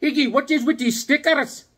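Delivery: high put-on puzzled voice; Bobby's voice. Buddy asks about the stickers, high and baffled. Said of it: "I'm like".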